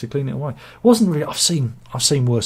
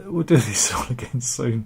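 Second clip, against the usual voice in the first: whispered laugh. Real, not acted. Signing off, laughing softly.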